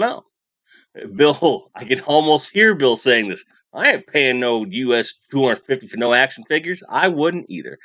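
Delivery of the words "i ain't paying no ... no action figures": put-on a half-hearted Southern accent doing a buddy; Bill's Southern accent. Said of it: "the best Southern, uh, accent I got".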